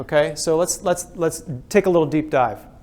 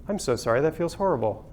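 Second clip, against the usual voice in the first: sincere sympathy; 6 dB quieter than usual. Retold or imitated. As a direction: say it like you truly mean it, hushed. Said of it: "are your leaders trained with this".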